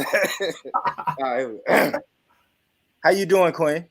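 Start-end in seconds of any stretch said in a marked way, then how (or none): 3.0-3.8 smooth pickup line. Acted. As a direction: say it smooth and easy. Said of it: "that sounds smooth though".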